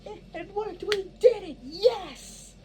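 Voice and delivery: very high, gleeful victory squeal; excited cheering. Shown as a demonstration. Director demonstrating the coven celebrating, high excited cheer. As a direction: bounce with joy, voice up high. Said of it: "so you're all over here like".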